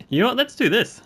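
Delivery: a high, loud burst of hype; hyped up. Real, not acted. Gamer committing to a wild trade, high loud hype. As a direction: fire yourself up for a crazy move.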